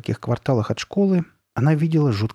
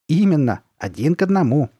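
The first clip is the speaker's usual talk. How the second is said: louder, higher, triumphant exclamation; 5 semitones higher, 5 dB louder than usual. A narrator's reading. Mother proudly confirms the likeness to her daughter, triumphant. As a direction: proclaim it in triumph. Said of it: "с торжеством проговорила".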